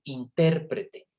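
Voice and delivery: intérprete, stress on the IN syllable, noun; intérprete with stress on the first syllable. Shown as a demonstration. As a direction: say intérprete as the profession, IN-ter-pre-te. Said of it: "Puedo cambiar el acento".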